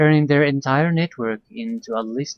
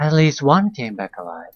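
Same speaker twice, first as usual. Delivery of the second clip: ordinary delivery, nothing marked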